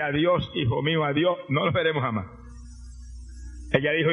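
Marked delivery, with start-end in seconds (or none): 0.0-2.3 lower, softer echo of the farewell; the son repeats it under his breath, hurt; a lightly voiced, hushed replay of mother's words; quiet retold farewell. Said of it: "Y a mí me dice".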